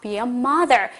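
very slow, each word laid out; slow model sentence. Shown as a demonstration. Teacher modelling for the class, very slow. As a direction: say it slowly for students to copy. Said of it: "다시 한번".

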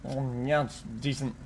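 eating while talking; mouth full. Real, not acted. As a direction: talk through a mouthful of burger. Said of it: "I don't usually talk with, uh, my mouth full".

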